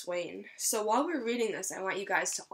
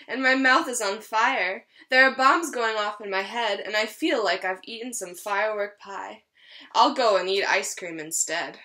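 louder hammed-up complaint of burning mouth; complaining wolf; 5 dB louder than usual. Wolf with a burning mouth complaining loudly, hammed up. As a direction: wail about the fire in his mouth, mock pained. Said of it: "moaned the wolf".

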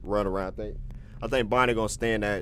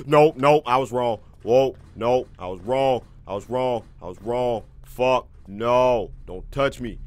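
being chased; 3 semitones higher, 8 dB louder, slower than usual. Real, not acted. Caught by animatronic.

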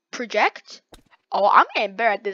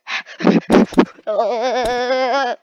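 loud laugh; 8 dB louder than usual. Real, not acted. Cracking up after failing.

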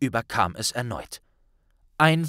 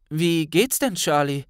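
worried; 7 semitones higher, 5 dB louder than usual. Acted. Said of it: "fragte Hermine besorgt".

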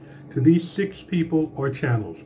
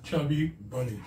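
cheeks stuffed full; 6 dB quieter than usual. Real, not acted. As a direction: mouth full of marshmallows. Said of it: "will stick two marshmallows in my mouth".

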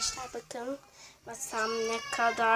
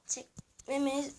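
whisper; 6 dB quieter, much slower than usual. Real, not acted. Tired, whispering aside.

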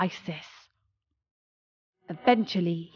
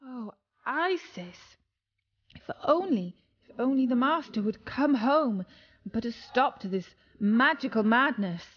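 despairing. Acted. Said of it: "in despair".

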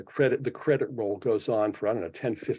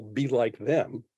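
slow quote; much slower than usual. Retold or imitated. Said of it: "I'm not saying to people".

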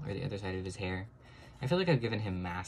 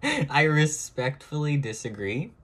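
laughing defiance; 6 semitones higher, 8 dB louder than usual. Real, not acted.

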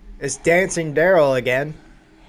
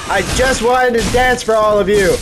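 hammed-up protest; 4 semitones higher than usual. Protests to angry audience while attacked.

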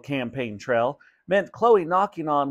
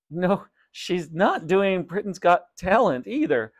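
smirking; 5 semitones higher than usual. Acted. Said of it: "Chloe smirked".

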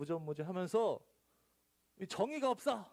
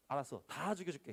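low, offhand reply; curt God; 5 semitones lower, 4 dB quieter than usual. Acted. God answering Habakkuk's request, low and offhand. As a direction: shrug it off with deadly calm.

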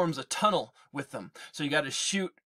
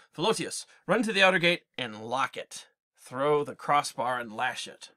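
Odysseus giving orders; 5 semitones higher, 5 dB louder than usual. Acted. Odysseus commanding.

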